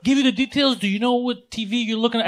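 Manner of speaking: high, eager imitation of a salesclerk; excited. Best Buy kid to a waiting customer, excited. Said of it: "he's excited".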